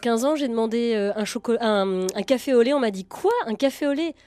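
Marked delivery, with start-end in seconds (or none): 3.1-4.1 retold puzzled question, rising sharply at the end; incredulous echo. Parisian server baffled by a newcomer's café au lait, incredulous. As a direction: echo the order back in mock disbelief.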